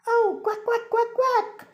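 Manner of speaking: high quacking duck noise. Acted. Duck sound for children.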